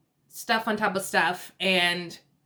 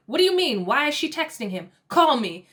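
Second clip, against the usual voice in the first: high, loud retold demand; alarmed demand; 5 semitones higher, 4 dB louder than usual. Brother replying to prank text, alarmed demand. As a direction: imitate a rattled brother, pitch jumping up.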